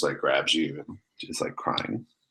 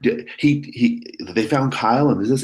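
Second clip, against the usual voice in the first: rushed gossip; 7 semitones higher, 4 dB louder than usual. Acted. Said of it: "He's like".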